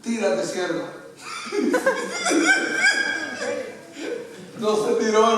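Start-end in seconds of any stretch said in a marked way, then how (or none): 0.0-0.9 laughing tease. Retold or imitated. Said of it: "Y la soltaron". 1.3-3.7 laughing hard at his own punchline; high burst of laughter. Real, not acted.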